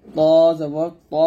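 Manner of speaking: thick, heavy ত with a rounded vowel; heavy pronunciation. Shown as a demonstration. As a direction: demonstrate "ত জবর ত" full-mouthed. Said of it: "বলতে হবে মোটা করে". (মোটা করে "ত" উচ্চারণ)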